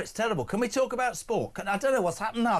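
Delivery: put-on Scouse fluster; Scouse accent like Lily Savage. Host asking to talk sport, stuck in Scouse. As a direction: plead to move on in mock Scouse. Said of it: "I've turned into pure Lily Savage".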